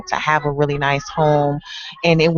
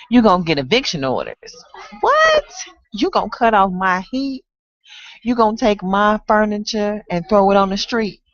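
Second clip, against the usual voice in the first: higher-pitched, incredulous tenant talking back; indignant tenant; 4 semitones higher than usual. Acted. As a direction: challenge the landlord, then settle into a threat. Tenant defies the landlord's threats.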